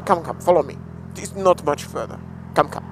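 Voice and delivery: a hammed-up, mildly voiced French accent; beckoning in a put-on French accent; bad French accent. Filtering through traffic to viewers, in a bad French accent. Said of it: "I could just do a bad French accent".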